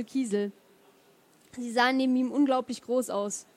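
measured literary reading aloud; story narration. Acted. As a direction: read the chapter to an audience, phrase by phrase. Liest aus eigenem Buch vor. (ruhig vorgetragene Romanlesung)

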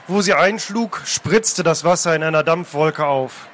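measured, dramatic reading aloud; story narration. A narrator's reading. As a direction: narrate the sea chase with deliberate pauses. Reads a novel scene aloud.

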